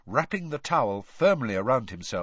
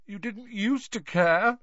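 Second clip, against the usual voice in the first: miserable; 11 semitones higher, slower than usual. Acted. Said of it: "said Myrtle miserably".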